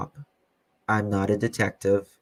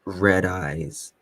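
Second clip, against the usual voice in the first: lightly done slow, dry droning ad voice; a hint of a deadpan eye-drop commercial, drawn out; Ben Stein; much slower than usual. To a riled-up viewer, a touch of a monotone Ben Stein ad read. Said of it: "my Ben Stein voice".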